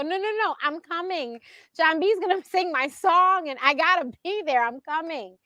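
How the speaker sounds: retold stubborn refusal to stay away; insistent. Retelling her insistence on coming.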